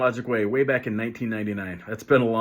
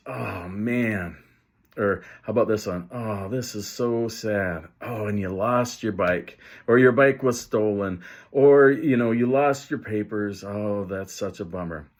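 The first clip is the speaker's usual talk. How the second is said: empathetic sympathy. Shown as a demonstration. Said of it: "provide a strong dose of empathy".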